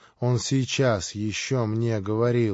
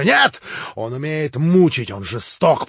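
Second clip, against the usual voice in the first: much higher, louder, not listening; frantic shout; 4 semitones higher, 7 dB louder, slower than usual. A narrator's reading. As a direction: shout over his brother. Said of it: "продолжал, не слушая Иван". (Иван кричит, не слушая брата)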